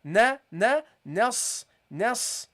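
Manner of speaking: "na" and "nas" with a thin, fronted vowel; light start. Shown as a demonstration. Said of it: "You start light".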